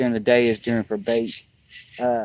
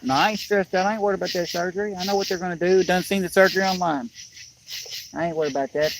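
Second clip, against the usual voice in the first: retold reply; 6 semitones higher, faster than usual. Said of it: "his reply to Rachel".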